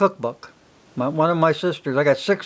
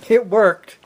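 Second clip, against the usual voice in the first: triumphant; 4 semitones higher than usual. Real, not acted. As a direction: crow about the trick paying off. Punchline said twice.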